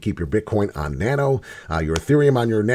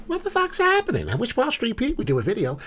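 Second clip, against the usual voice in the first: high, squeaky panicked voice, much higher; mock panicked crowd; 11 semitones higher, 6 dB quieter than usual. To his viewers, mocking panicked investors in a squeaky high voice. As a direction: play the clueless investors freaking out. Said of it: "all you people are gonna go".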